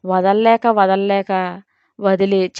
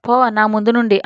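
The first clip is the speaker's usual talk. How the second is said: disgusted anger. Acted. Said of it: "అసహించుకుంది".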